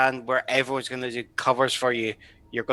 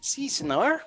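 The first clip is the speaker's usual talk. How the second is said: mock Mexican accent; 9 semitones higher, 5 dB quieter, slower than usual. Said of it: "speak in a mock Mexican accent".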